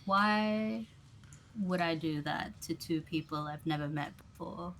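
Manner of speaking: lightly smiling stranger, voice lifted on the first word; smile in voice. Acted. Stranger to two people he has never met, smile in voice. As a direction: ask it with a hint of a smile. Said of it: "hear the smile in his voice".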